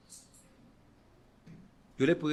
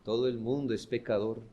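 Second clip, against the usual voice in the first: softer, lower, with a touch of tears; tearful confession; 3 semitones lower, 4 dB quieter than usual. Shown as a demonstration. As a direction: confesarlo con dolor, casi llorando. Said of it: "lo deberíamos estar diciendo, llorando". (dicho con un leve tono de llanto)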